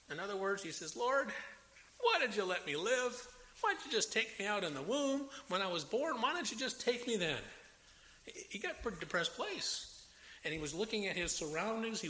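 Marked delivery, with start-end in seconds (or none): 1.0-7.4 higher, anguished plea to God; pleading lament. Retold or imitated. Job begging God why he lived, anguished. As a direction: cry out to God in despair.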